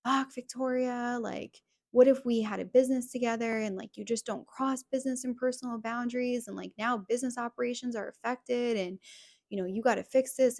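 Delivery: mild mock rant at his girlfriend over the phone; retold outburst. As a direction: replay him losing it, heated but not shouting. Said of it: "he lost it".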